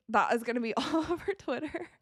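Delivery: amused, laughing prediction. Real, not acted. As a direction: let laughter take over mid-sentence. Amused reaction to an on-court mishap.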